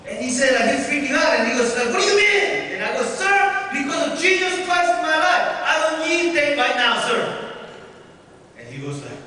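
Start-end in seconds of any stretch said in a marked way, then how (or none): 1.9-2.7 much higher, louder disbelieving question; startled question. Retold or imitated. Shocked officer questions cadet. 3.0-7.5 bold cadet reply. Retold or imitated. Cadet answers officer formally.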